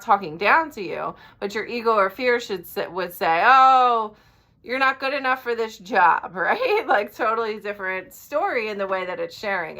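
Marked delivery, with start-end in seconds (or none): 3.5-6.4 a hint of a loud, whiny put-down; mildly whiny, belittling inner voice, loud on "Oh"; mock whiny ego. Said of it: "your ego is kinda loud and whiny".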